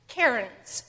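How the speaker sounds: CAIRNS as the proper name of the stone piles; "cairns" carefully pronounced, distinct from "Karens"; cairns pronunciation. Shown as a demonstration. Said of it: "and not Karens".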